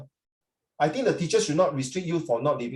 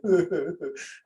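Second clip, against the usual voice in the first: half laugh, half pretend weeping; mock sobbing laugh. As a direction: fake boo-hoo chuckle. Mock woe at missing the feast.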